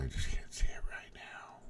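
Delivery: under-the-breath whisper to himself; whispered aside. Real, not acted. Searching his screen, whispers to himself under his breath. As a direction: mutter it to yourself while hunting on screen.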